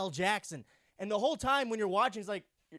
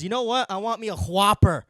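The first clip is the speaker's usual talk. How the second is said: mock craving shout; 9 dB louder than usual. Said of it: "wakes up in the morning and says".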